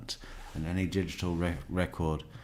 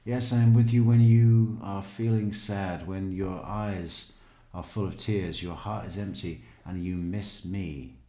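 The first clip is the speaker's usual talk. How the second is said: mock sentimental reading; 3 dB louder than usual. Reading the sappy book aloud.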